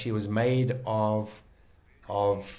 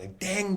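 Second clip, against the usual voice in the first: imitated bell ding; 9 semitones higher than usual. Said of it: "I heard this bell sound".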